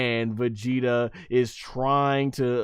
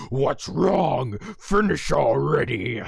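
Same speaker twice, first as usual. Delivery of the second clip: taunting villain; slower than usual. Retold or imitated. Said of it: "he's got Vegeta now saying".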